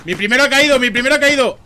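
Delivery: alarmed. Real, not acted. Squad leader falls in firefight.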